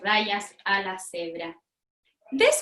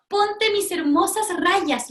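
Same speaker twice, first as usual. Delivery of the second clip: slow whisper, higher; whispered zebra; 7 semitones higher, slower than usual. Acted. Zebra offers her stripes to the pig, whispering slowly. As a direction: breathe it out like a secretive zebra. Zebra voiced in read-aloud.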